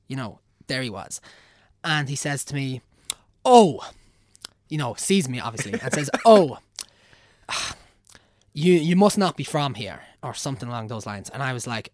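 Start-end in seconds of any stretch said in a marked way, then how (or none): 3.4-3.9 mock surprised priest. Priest's surprised greeting retold. 6.3-10.0 louder, higher put-on priest voice; playing the patronising old priest; hammed-up priest, pitched up and loud; mock priest.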